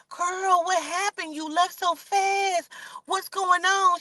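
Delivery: high, sweet fake-concerned girlfriend; innocent friend voice. Tasha greets Tiny at home, high innocent voice. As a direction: play dumb in a high voice.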